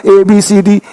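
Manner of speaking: "ए, बी, सी, डी" as letter names; old letter names. Shown as a demonstration. Teacher showing the old way of reading. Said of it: "लेकिन अब पढ़ना".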